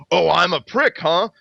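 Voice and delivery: high mock indignation; retold indignant retort. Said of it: "Joe jumps back and goes".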